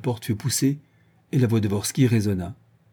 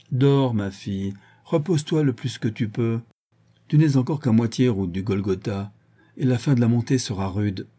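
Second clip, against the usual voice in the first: mock tender. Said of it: "Il s'éloigna en plaisantant".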